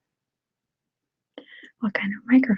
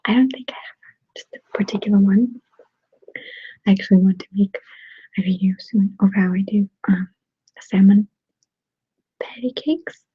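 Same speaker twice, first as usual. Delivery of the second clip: ASMR whisper. Real, not acted. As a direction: whisper casually, as if chatting to ASMR viewers. ASMR whisper held throughout.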